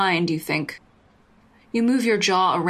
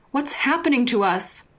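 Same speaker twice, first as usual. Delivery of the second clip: put-on high, raised drunken cry; yelling; 6 semitones higher than usual. Drunk Justine crying out at Jasmine, raised and high. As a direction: cry it out at her, pitched up high. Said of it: "You're yelling now".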